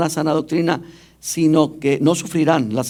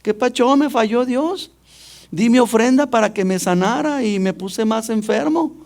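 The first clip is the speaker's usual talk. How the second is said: mock whiny complaint; 6 semitones higher than usual. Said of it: "llegan llorando y me dicen".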